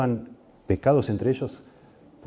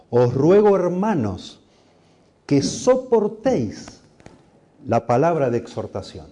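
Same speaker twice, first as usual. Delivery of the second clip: Os ruego raised high and loud, que soportéis drawn out slowly; fervent pleading read; 5 semitones higher, 3 dB louder, slower than usual. Acted. Preacher reading Hebrews aloud to the church, fervent and slow. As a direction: plead with the brothers from the pulpit, rising high and slow. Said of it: "dice, Hebreos trece veintidós".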